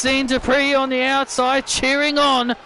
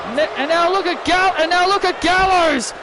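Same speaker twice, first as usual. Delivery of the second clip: excited play-by-play; 3 semitones higher than usual. Acted. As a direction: react to each big move as it lands. Commentator reacting to big tag-team moves.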